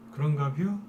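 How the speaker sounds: light Chungcheong dialect, rising at the end. Retold or imitated. Stock host mimics indifferent market in Chungcheong dialect. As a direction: toss off a lazy Chungcheong shrug-question. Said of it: "그 충청도 사투리로".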